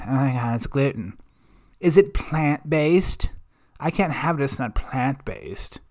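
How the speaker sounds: imitating a pretentious complainer; lightly put-on moan, dragging out the diet questions; mock moaning. Mimicking a pretentious diner fretting about gluten, mock moaning. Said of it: "crying and bitching and fucking moaning".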